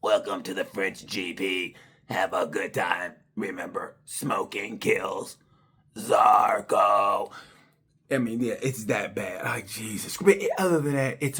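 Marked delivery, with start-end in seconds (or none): 0.0-7.3 a lightly voiced announcer, slowed on the warning; half-hearted PA voice with a slow smoking kills; mock French announcer. Mocking the French GP's PA greeting, lightly voiced announcer. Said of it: "sound like it's on auto-tune".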